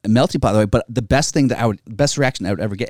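usual speaking voice

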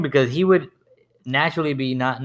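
ordinary delivery

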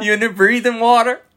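put-on high, loud baby talk to a fish; pet-talk voice. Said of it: "when we talk in that voice".

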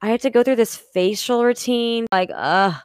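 groggy, whining about getting up; whiny complaining. Retold or imitated. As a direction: complain like you hate mornings. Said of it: "I'm stressed out for just saying those things".

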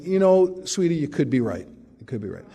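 calm him down sweetly; mild mock-sweet wife; soothing wife. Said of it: "is fond of saying".

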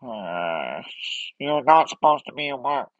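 a hint of a fed-up Squidward; Squidward impression. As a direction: grumble like a put-upon neighbour. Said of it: "I can do Squidward".

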